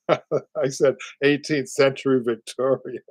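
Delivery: laughing at his own slip. Real, not acted. Host laughing at his own misspoken date. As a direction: chuckle through the words, slow.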